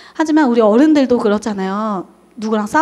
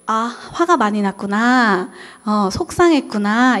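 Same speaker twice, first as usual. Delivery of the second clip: slow gentle validation; empathetic; slower than usual. Shown as a demonstration. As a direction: acknowledge the feeling slowly and kindly. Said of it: "제가 좀 어색한, 언어 표현". (천천히 공감하는 말투)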